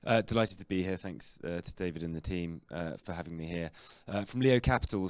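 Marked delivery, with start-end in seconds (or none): 0.0-3.0 real hoarse, croaky throat. Real, not acted. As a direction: speak through a croaky throat. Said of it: "a bit of a croaky voice".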